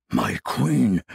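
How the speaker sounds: shocked, loud protest; stunned outcry. A narrator's reading. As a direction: cry out in disbelief. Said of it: "Ossiax appeared stunned".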